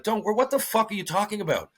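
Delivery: retold exasperated disbelief; incredulous retort. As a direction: throw their reassurance back, baffled. Acted disbelief at teammates' reassurance.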